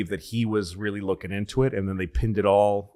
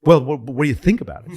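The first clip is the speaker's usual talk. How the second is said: pressing reporter, higher and louder, quick; pushy reporter; 5 semitones higher, 8 dB louder, faster than usual. Retold or imitated. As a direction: push him for a straight answer, fast. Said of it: "Guy goes".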